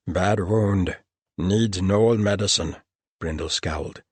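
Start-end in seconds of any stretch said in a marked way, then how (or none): 0.1-2.8 slow gnoll voice, alarmed; worried gnoll. A narrator's reading. Gnoll learning a gnoll is injured, alarmed. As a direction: gnoll creature asking in sudden concern.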